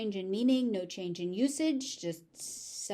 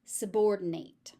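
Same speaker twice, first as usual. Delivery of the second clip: whisper. Shown as a demonstration. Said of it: "the ending is pronounced slightly differently".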